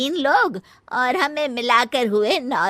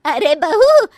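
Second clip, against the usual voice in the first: normal talking voice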